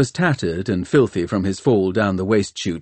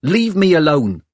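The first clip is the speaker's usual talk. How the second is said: high, loud, irritated snap; snapped; 7 semitones higher, 5 dB louder than usual. A narrator's reading. Hester brushes off Tom following her, snapping. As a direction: snap at him to back off. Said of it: "she snapped".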